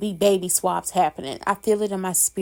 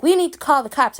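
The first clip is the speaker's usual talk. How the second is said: mock panicked Nina; 6 semitones higher, 5 dB louder than usual. Nina panicking after the fight.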